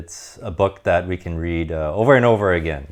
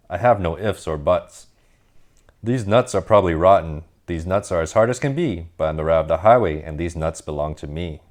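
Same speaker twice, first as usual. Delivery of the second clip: mild snarl. Acted. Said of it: "snatched the sack and snarled".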